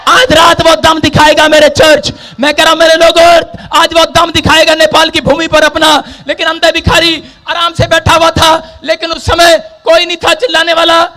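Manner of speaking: high, driving sermon delivery; full-force preaching. Acted. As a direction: preach it out in an unrelenting stream.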